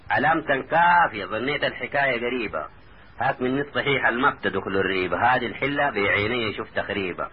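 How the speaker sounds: measured dialect poem recital; verse recitation. A narrator's reading. Taha reassures his cousin in verse, recited. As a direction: recite the boast in rhythmic lines.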